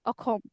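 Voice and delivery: "Akhom" with kh in the middle, said softly; Assamese pronunciation. Shown as a demonstration. Repeating her state's native name for a learner, Assamese pronunciation. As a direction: say "Akhom" with rounded o, not an s. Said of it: "in Assamese we say".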